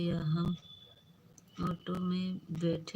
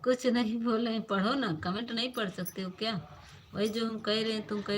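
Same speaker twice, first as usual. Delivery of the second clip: irritated scolding; 4 semitones higher, faster than usual. Real, not acted. Scolding someone off mic.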